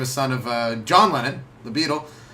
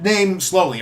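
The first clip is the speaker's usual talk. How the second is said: slow; 3 semitones higher, 4 dB louder, slower than usual. Shown as a demonstration. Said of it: "say Arnold Schwarzenegger's name slow".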